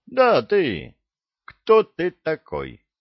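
high, loud parade-ground demand; barking sergeant. A narrator's reading. Master sergeant singling out a recruit, barking.

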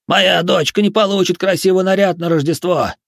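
high, loud hysterical wail. Acted. Пузан in hysterics about his daughter's Christmas dress, high and loud. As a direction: come apart over the daughter's dress. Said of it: "бился в истерике Пузан".

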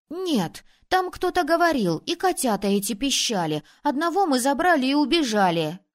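put-on insistent boy. Boy insists during the argument.

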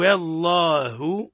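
والله with a full, heavy lam, drawn out; slow recitation of والله with full tafkhim; heavy Allah. Shown as a demonstration. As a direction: say والله with a thick, emphatic double lam. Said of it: "تفخيم اسم الجلالة".

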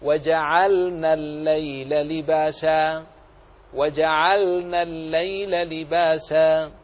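measured Quranic chant, crisp vowelless L in "وجعلنا"; ترتيل with clear sukun lam. Shown as a demonstration. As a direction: recite slowly, sounding the still L in "وجعلنا" before the N. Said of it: "فاقرأ هكذا". (تلاوة متأنية مع إظهار اللام الساكنة في "وجعلنا")

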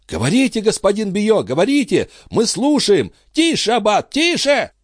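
high, excited crowd cries; insistent high-pitched calls; crowd calling out. Acted. Crowd urging Biot, hushing abbot.

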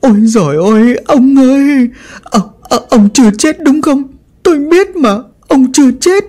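high, keening wail, slowing on the order to let go; half-mad widow crying out to her husband; wailing lament. Acted. Bà Hoan wailing over her husband's coffin, crazed with grief. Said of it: "miệng gào khóc".

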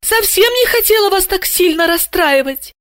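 very high little squeaking voice. Acted. Guilty Asya squeaking an apology to her boss. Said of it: "пискнула".

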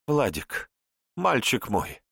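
syrupy tender coaxing; overly sweet cooing voice; слишком нежно. A narrator's reading. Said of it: "Как-то слишком нежно заговорила та". (слишком нежно, заискивающе)

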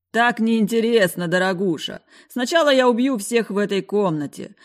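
gloating. Acted. Villain gloating.

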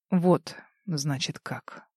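slow, quiet, drawn-out and menacing; slowly. A narrator's reading. Richard coldly taking in her accusation, slow and quiet. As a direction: let each word hang, slow and low. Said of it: "медленно произнёс Ричард".

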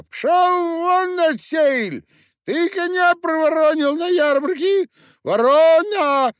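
very high, loud, slow squeal of a tiny furious man; little miller yelling Пшёл вон at Perkhusha; squealing shout. A narrator's reading. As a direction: scream it at the coachman in a high squeak. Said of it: "закричал мельник".

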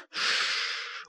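soft whispered hush to calm; soothing shush. A narrator's reading. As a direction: hush a hurt child gently. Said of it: "успокаивала девочку Киврин".

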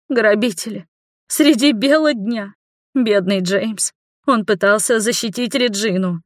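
breathless frightened neighbour pouring out the story; panting shaky eyewitness. A narrator's reading. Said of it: "плаксивый голос соседки ... дрожащим голосом". (взволнованная соседка дрожащим, плаксивым голосом)

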